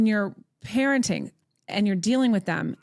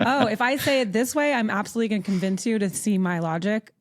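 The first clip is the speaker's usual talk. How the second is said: louder, eager mock self-persuasion; 2 semitones higher, 4 dB louder, faster than usual. Herself mocking her urge to convince the narcissist, eager. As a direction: ham up the one more argument. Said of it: "they're like".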